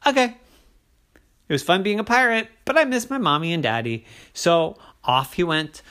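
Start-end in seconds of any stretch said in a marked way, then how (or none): 0.0-4.0 high, eager little leprechaun voice. Acted. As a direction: bounce with excitement like a small boy. Liam voice.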